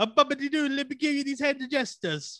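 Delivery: very high, exaggerated mock Italian accent. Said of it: "I do an Italian accent".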